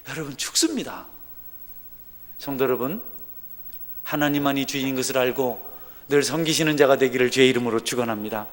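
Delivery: usual speaking voice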